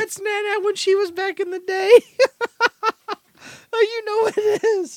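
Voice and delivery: very high, laughing squeal. Real, not acted. Laughing while explaining skit.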